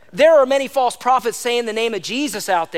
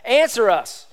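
retold shouting; 4 semitones higher, 4 dB louder, slower than usual.

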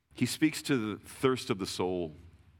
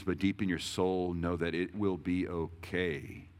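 reassuring; 3 semitones lower, slower than usual. Acted. Reassuring offer of peace.

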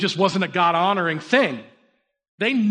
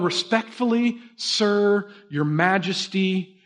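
measured, deferential refusal, slowing at the end; respectful; slower than usual. Acted. Three youths answer the threatening king, calmly respectful. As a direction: address a king with calm deference. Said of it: "they show the king respect".

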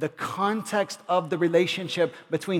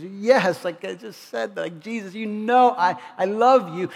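exasperated reply; 3 semitones higher, 5 dB louder than usual. Retold or imitated. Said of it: "Peter is somewhat exasperated".

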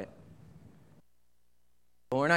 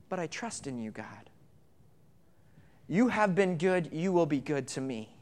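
quiet trust; 5 dB quieter than usual. Acted.

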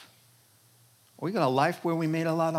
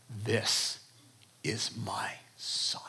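whispering; 6 semitones lower, 5 dB quieter, slower than usual. Acted. Voice from heaven, whispered.

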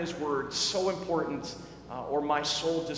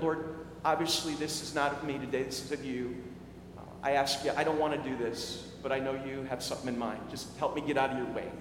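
softer, inward prayer under the breath; hushed prayer; 5 semitones lower, 6 dB quieter than usual. Retold or imitated. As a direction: pray quietly to yourself mid-conversation. Silent prayer retold.

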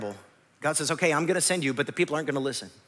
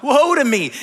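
louder, anguished cry of woe; 4 semitones higher, 5 dB louder than usual. Acted. Isaiah crying out at his own sinfulness, loud and anguished. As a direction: cry it out as a man undone. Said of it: "he cries out".

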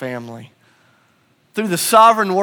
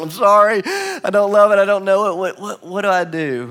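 apologetic confession; 3 semitones higher than usual. Retold or imitated. Confessing to parents about not loving the word, apologetic. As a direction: blurt out a mildly acted apology.

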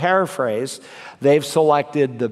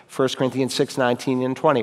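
fast rote recital; faster than usual. Shown as a demonstration. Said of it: "Now I'm gonna add a phrase".

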